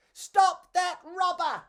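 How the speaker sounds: high, loud, slow alarmed shout. Acted. Beefeater shouting to stop the robber. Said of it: "a beefeater shouted".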